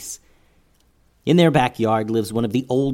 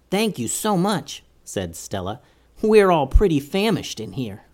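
higher small mouse voice; tiny squeaky critter; 4 semitones higher than usual. Acted. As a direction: speak like a grateful little mouse. Stella the mouse speaks.

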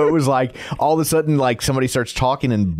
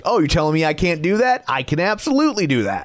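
defiant retort; 6 semitones higher, faster than usual. Retold or imitated.

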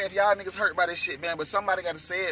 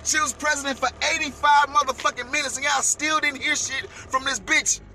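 louder, higher, slowed rant; angry rant; 6 semitones higher, 4 dB louder than usual. Real, not acted. Ranting to viewers about Kamala Harris, angry and raised. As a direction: drag out the outrage, pitch raised.

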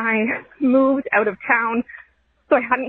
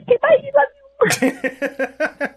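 rushed goodbye; 11 semitones higher, much slower than usual. Real, not acted. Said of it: "rapidly leave the room".

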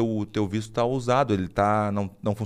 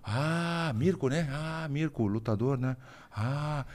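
imitating Japanese officer; 10 dB quieter, much slower than usual. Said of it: "e o japonês fala assim".

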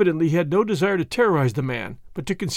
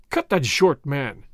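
rough; 3 semitones lower, slower than usual. Acted. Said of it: "interrupted Chauvelin roughly".

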